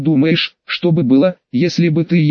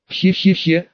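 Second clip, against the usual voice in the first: weak villain laugh, he-he-he; sinister chuckle that falls flat; evil laugh; 3 semitones higher than usual. Pretend. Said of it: "зловещий смех у меня не очень".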